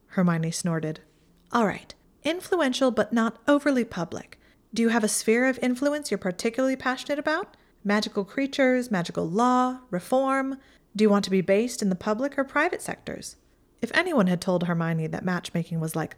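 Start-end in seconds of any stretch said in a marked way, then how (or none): 1.5-13.4 lightly voiced snooty witch, higher; a hint of haughty Pansy, teasing. A narrator's reading. Pansy quizzing Hermione as matchmaker, lightly higher and snooty.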